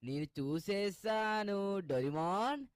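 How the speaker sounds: slow, drawn-out teasing call of the name; sing-song call. Shown as a demonstration. Showing friends the trick call to fool Doraemon, slow and sing-song. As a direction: stretch it out like a playful seeker's call. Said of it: "ఇలా అన్నామనుకోండి".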